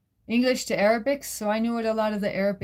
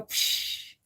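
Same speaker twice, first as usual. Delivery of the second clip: mock rip sound; 4 dB quieter than usual. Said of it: "and go".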